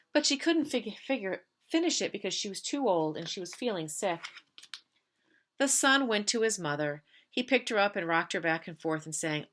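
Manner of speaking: put-on gentle read-aloud for children; story narration. Teacher reads picture book aloud.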